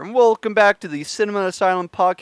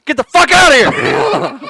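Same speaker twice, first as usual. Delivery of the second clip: high, raised-voice dismissal; mock-angry yell; 7 semitones higher, 4 dB louder than usual. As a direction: throw a pal out in jest. Joking quarrel over stolen catchphrase.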